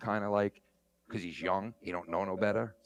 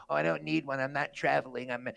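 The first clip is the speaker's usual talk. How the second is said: mock sovereign citizen; 3 semitones higher than usual. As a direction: play a smug driver dodging rules. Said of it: "they feel".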